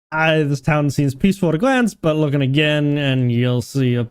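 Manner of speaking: lightly voiced innkeeper with rustic accent; hint of a fantasy barkeep's accent; tavern keeper in dialect. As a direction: caution a newcomer in a barkeep's dialect. Reads innkeeper's dialogue in dialect.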